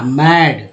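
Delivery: मैड said with a short open "ae"; teacher contrasting मैड with मेड; mad, short a. Shown as a demonstration. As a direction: say मैड with a flat "ae" vowel. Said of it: "M A D को बोलते हैं".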